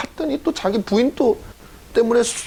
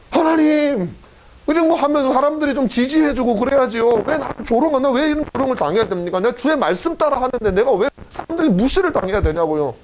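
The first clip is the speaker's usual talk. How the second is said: aggrieved Noah; 3 semitones higher than usual. Acted. Noah protests mockery to God.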